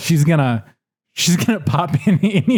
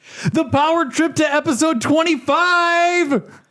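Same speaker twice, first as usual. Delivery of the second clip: announcer shout, pitched way up, very high; 11 semitones higher than usual. Answering what power trip he is on: yelling like a show opening. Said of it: "It sounded like an, an S N L opening".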